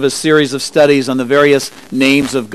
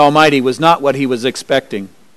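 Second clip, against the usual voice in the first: ordinary delivery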